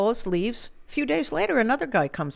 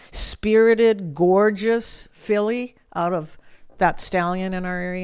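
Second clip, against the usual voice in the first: can't believe a deal this good, voice climbing; incredulous disbelief; 5 dB louder than usual. Retold or imitated. Girl to horse owner, offered his filly, loud incredulous disbelief. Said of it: "I was shocked".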